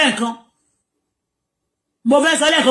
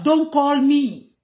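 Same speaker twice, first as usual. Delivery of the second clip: slow emphatic repeat; much slower than usual. Real, not acted. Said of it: "Don't do what?".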